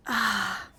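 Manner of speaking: loud, drawn-out "ah" of frustration; frustrated sigh. Real, not acted. Streamer unable to show viewers her find, exasperated sigh.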